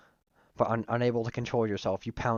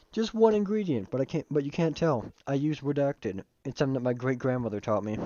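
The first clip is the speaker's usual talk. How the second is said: higher-pitched Southern gentleman; Southern-accented colonel character; 3 semitones higher than usual. Acted. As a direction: replay it with a put-on Southern accent. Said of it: "he is a southern accent".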